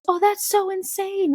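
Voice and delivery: high, drawn-out amazed reaction; imitated amazement. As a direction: stretch it out high, imitating someone impressed. Retold amazed reaction to her drive.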